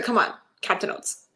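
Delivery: hushed whisper coaxing a toy. Retold or imitated. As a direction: whisper it like luring a pet. Seth coaxing his toy horse.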